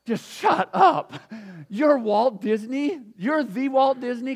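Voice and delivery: loud, high and drawn-out "shut up, you're Walt Disney?"; teen hearing her dad is famous, amazed shout; stunned shout of disbelief. Pretend. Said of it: "her going".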